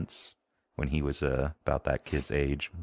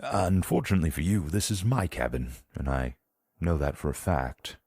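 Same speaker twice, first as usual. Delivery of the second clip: stern gentleman. Acted. Player voices Stanton confronting thief.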